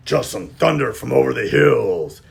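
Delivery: a touch of a sly wolf; sneaky wolf voice, lightly done. Acted. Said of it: "said the sneaky, hungry wolf".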